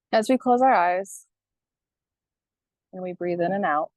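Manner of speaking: unhurried meditation guidance with long pauses; guided meditation. Acted. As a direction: gently guide listeners into breathing, leaving space between phrases.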